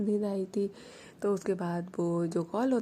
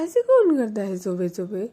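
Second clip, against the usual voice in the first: grumpy complaint; 7 dB louder than usual. Acted. Woken Mani complains.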